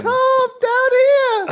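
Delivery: tiny high elf calling up, slow; christmas elf. Real, not acted. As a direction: call up from the floor, squeaky. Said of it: "make me sound like an elf".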